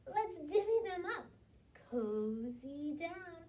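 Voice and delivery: cheerful badger. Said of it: "Badger says with a grin".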